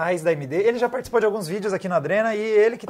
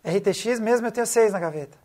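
goose voice; 3 semitones higher than usual. Pretend. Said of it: "que imitação é essa".

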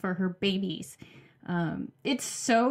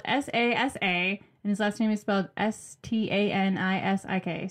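spelling it out; 3 semitones lower than usual. Shown as a demonstration. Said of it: "His name is spelled".

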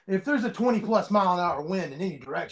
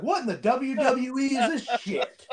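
retold bewilderment, drawn out with laughter; amused disbelief; 5 semitones higher, slower than usual. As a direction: act out laughing incredulity, slowly stretched. Retells own baffled reaction, laughing.

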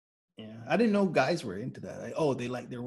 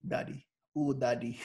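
breathy seductive; 4 dB quieter than usual. Pretend. Sultry daddy, laughing.

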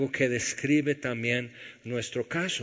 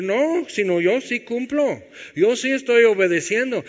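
mock self-righteous; 10 semitones higher, 8 dB louder than usual. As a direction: parody a smug rule-keeper. Mocking self-righteous believers.

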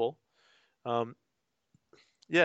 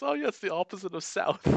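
deadpan bug voice; 8 semitones higher than usual. Retold or imitated. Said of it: "And he just goes".

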